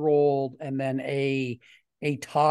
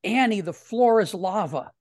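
higher-pitched imitation of a boy's yell; retold yell; 4 semitones higher, 3 dB louder than usual. Boy warning a little girl across the playground, mild retold yell. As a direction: call out a playground warning, only half raised. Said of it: "and then the boy yells".

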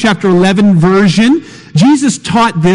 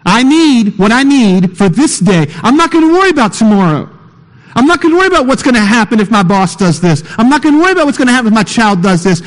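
mock prayer; 3 semitones higher, faster than usual. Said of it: "and I say".

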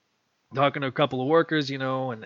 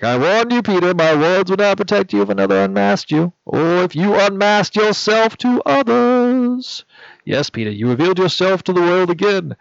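louder, grave, measured warning; Doctor Strange; 6 semitones higher, 8 dB louder than usual. Acted. Doctor Strange warning Peter, loud and grave. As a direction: scold him like a stern sorcerer. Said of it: "And Doctor Strange is like".

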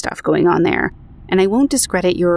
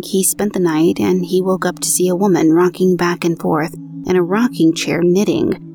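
even, measured podcast read of a true ghost story; narrating an eerie personal account; story narration. A narrator's reading. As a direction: read the listener's account aloud, steady and clear. Reads out listener's story.

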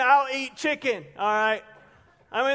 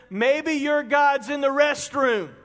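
slow, mocking jab; taunting; 3 semitones higher, slower than usual. Elijah taunts the false prophets some more, slow and mocking. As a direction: tease them with a drawn-out taunt. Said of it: "taunting them some more".

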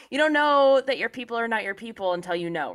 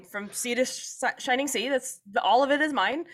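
mock British colonizer; 6 semitones higher than usual. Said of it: "I have a British accent".

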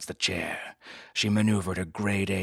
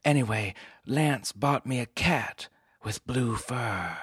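dame voice; 5 semitones higher than usual. Acted. Client voice.

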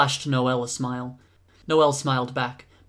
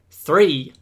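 loud single-word count; loud count, falling at the end; called-out count; 3 semitones higher, 9 dB louder than usual. Acted. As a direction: call the number out forcefully. Counting out repeated throws.

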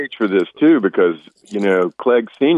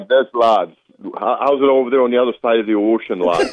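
put-on a jokey British accent that slides toward Irish brogue; British accent with too much brogue; mock British accent. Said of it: "give us some, you know, the old British accent".

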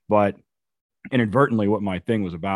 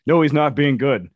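mock rant; 3 semitones higher than usual.

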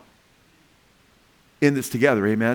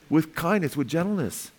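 gentle; 3 semitones higher, 4 dB quieter than usual. Shown as a demonstration. Answers how to correct people gently.

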